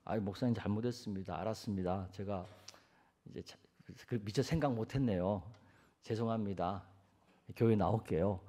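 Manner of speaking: low, soft, submissive murmur; acted contrite churchgoer, voice small; meek apology. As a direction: give in humbly to the pastor. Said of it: "목사가 신방 가서 그렇게 얘기하면".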